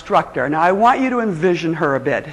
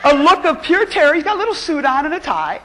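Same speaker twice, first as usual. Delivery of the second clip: high, laughing disbelief; laughing retelling; 9 semitones higher than usual. Real, not acted. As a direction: laugh your way through the crash. Laughing through the disaster.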